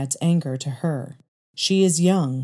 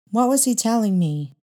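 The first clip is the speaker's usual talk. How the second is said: put-on much higher child's voice, curious; little girl's voice; 6 semitones higher than usual. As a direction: ask like a curious eight-year-old. Young girl to mother.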